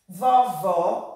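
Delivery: "vovó" loud and deliberate with open o; "vovó" with a wide open ending; open vowel. Shown as a demonstration. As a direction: say "vovó" firmly, opening the final ó. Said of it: "o nosso O está com som aberto".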